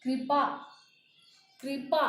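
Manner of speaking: कृपा said as "kri-paa"; blended ri. Shown as a demonstration. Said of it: "उसके साथ री मिला हुआ हो".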